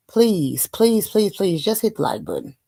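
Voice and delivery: playful string of pleases; begging. Real, not acted. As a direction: plead with viewers, tumbling over repeated pleases. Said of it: "I'm begging".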